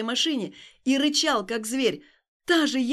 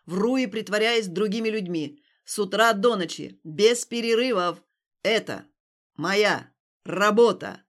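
loud, slow, hammering yell; angry shouting; 2 semitones lower, 6 dB louder than usual. Acted. Stas shouting his confession at Alina in the street. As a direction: pound out each phrase in rage.

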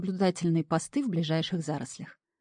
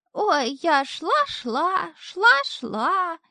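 put-on much higher drawn-out girlish voice; stalling falsetto; 11 semitones higher, 3 dB louder, much slower than usual. A narrator's reading. Imp stalling the devil, high drawn-out girly voice. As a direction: drag it out to buy time. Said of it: "тянул время чертяка".

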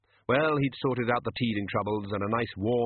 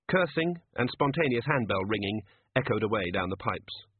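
ordinary delivery, nothing marked

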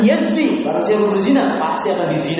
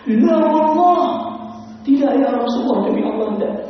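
shouted refusal; 9 semitones higher than usual. Retold or imitated. Young man refuses again about his sister. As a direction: cry out no, swearing by God. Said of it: "Dengan teriak".

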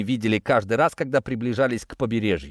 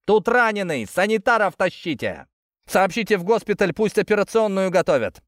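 high, raised military shout; yelling orders; 7 semitones higher than usual. A narrator's reading. Soldier yells to his men for medics. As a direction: bark it across the post. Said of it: "развернулся и заорал".

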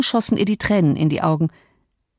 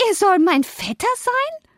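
scornful; 13 semitones higher than usual. Acted. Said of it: "rief Cathy mit höhnischem Lachen".

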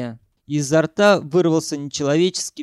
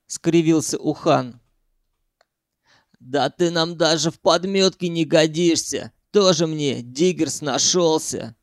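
usual speaking voice

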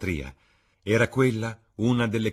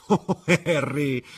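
slow, higher exclamation with a soft laugh; quiet laugh; 9 semitones higher, 8 dB louder, much slower than usual. A narrator's reading. Dorian laughing off Harry, slow and higher. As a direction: laugh the name off lightly. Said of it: "esclamò il ragazzo con una quieta risata".

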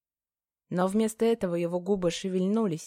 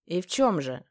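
plain reading voice

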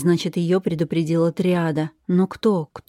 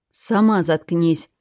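growled retort; slower than usual. Acted. Chained woman snarls back at her captor, growling. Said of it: "зарычала в ответ".

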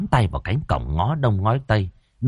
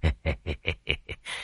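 ingratiating chuckle; 5 semitones lower, 12 dB quieter than usual. A narrator's reading. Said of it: "Lão cười cười cầu tài".

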